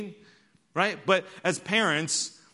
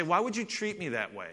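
hurt spouse; 6 dB quieter than usual. Retold or imitated. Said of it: "they say".

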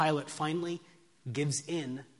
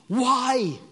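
high, loud, impassioned plea of a governor; Pilate's protest; 13 semitones higher, 9 dB louder than usual. Acted. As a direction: cry it out to an angry crowd. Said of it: "Pilate speaking".

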